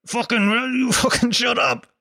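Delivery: high, mock-angry yell at a kid; old-school parent losing it, hammed up; a laughing imitation of an angry Irish parent; mock furious parent. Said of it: "they'd go".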